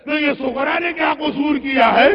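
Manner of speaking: retold pained plea to a brother; anguished protest. Zainab questions her brother for Sughra, anguished. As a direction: protest in mild acted anguish. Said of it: "زینب نے تڑپ کے کہا".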